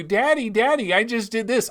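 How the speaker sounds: hammed-up child calling for attention; eager three-year-old. Three-year-old runs up to daddy, eager imitated kid. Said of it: "your three-year-old is running up to you".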